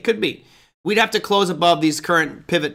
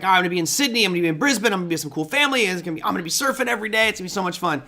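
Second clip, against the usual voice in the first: mock-eager, higher voice, rushing through the surfing part; excited teen; 4 semitones higher, much faster than usual. Trader recalls his teenage self, imitating the giddy excitement. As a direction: gush like a giddy seventeen-year-old planning his trip. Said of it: "I was like".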